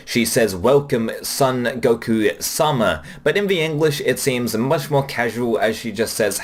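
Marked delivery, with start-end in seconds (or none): 0.6-3.0 slow, deliberate, stiffly polite welcome; formal greeting. Retold or imitated. Receptionist formally welcoming Goku at Capsule Corporation, slow and stiff. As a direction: greet him with measured, careful politeness. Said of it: "it is an extremely formal greeting".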